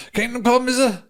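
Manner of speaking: high, smug rising sneer; smug clerk behind the counter, teasing. Retold or imitated. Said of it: "With a wee smiley, smug fucking head".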